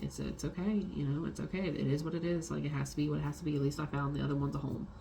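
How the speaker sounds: soft, resigned reassurance; hushed acceptance, lightly acted; gentle consoling. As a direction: comfort them quietly, as retold. Consoling the crying cop.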